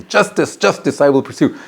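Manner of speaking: "Justice" hit high, strongly; emphatic. Shown as a demonstration. Teacher showing a forceful reading, each "Justice" punched high. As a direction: pound out "Justice, justice, I will pursue". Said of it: "very emphatically".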